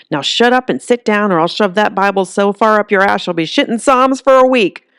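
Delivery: a feisty granny putting her in place; tough granny threat. Acted.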